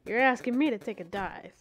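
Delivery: lightly put-on British accent; a touch of British "mate" talk. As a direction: read it as a British bloke, casually. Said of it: "I'm not doing the British accent".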